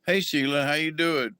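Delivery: sergeant's greeting. Retold or imitated. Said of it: "He talked like this all the time".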